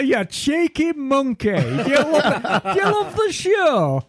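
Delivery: high laughing tease; teasing laugh. Acted. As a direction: laugh through a teasing question.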